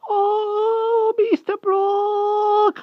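very high, crying little hedgehog. A narrator's reading. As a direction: squeal it out, pleading. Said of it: "cried the hedgehog".

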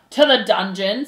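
loud cry from the front row; demanding. Acted. Mouse in front row condemns him, demanding. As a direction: call out for punishment.

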